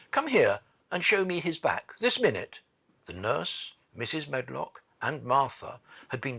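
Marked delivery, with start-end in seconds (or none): 0.1-2.6 raised, loud, imperious order; commanding. A narrator's reading. Mary ordering the nurse to the bed, commanding. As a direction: order her over at once. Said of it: "she commanded".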